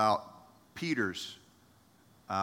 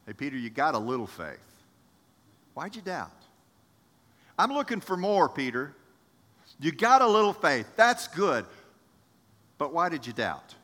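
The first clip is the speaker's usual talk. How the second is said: encouraging Jesus; 4 dB louder than usual. Acted. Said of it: "No, he says".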